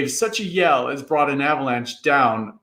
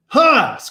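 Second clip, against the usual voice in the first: a big voice's sudden huh; barked grunt from a giant; loud high grunt; 11 semitones higher, 5 dB louder than usual. A narrator's reading. Giant grunts down at the cowering boys, loud. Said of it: "grunted a large voice".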